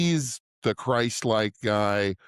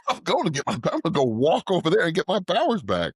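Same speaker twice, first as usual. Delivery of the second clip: laughing, half-shouted; laughing mock shout; 8 semitones higher, 3 dB louder, faster than usual. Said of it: "He just goes back and gets him".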